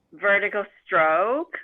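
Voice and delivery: very slow, each stroke stretched out; drawn-out recital. Retold or imitated. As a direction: recite it like a Tai Chi count, imitating. Dad spelling curse as character strokes.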